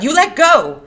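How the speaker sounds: high, forceful yell; crying out. A narrator's reading. Curley's wife struggling with Lenny, alarmed shout. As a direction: demand release at full voice. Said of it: "she cried".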